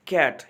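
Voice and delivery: CAT said as one unbroken sound; one syllable. Shown as a demonstration. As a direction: say कैट in a single beat, no split. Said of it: "जैसे मैं sound निकालता हूँ कैट का, ये तकसीम नहीं होता". (कैट एक ही साउंड में, बिना तोड़े)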